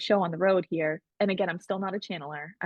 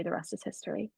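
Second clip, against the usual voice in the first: quiet emphasis; 2 semitones lower, 10 dB quieter than usual. Shown as a demonstration. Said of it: "when I say the rest is history".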